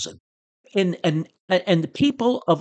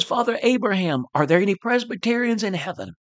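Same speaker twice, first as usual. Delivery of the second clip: raised high, calling upward to Abraham; preacher calling high toward heaven; crying out to heaven; 3 semitones higher, faster than usual. Retold or imitated. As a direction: call up to the balcony of heaven. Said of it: "then he says".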